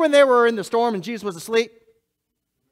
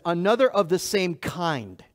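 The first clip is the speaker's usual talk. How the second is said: slow definition; 2 semitones lower than usual. Shown as a demonstration. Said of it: "the word another means this".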